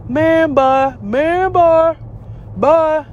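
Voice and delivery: impatient man getting off the phone; dismissive brush-off. Retold or imitated. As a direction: shoo her away with a rising "bye". He brushes her off.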